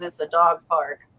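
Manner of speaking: low, dead-flat monotone tv ad voice. Quoting a tv commercial that keeps getting stuck in their head: imitating a monotone tv commercial. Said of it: "she just says it's so monotone".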